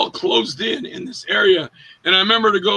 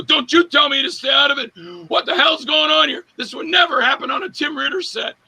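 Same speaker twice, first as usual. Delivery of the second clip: raised, higher-pitched indignant yelling; angry retort; 6 semitones higher than usual. Retold or imitated. Joel fake-arguing back at Andrew, indignant yelling. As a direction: yell back like you're truly offended.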